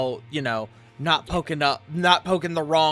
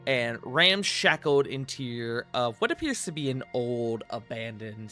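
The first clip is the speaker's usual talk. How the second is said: slow descriptive narration; game master narration; slower than usual. Acted. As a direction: set the scene slowly. Game master's scene setting.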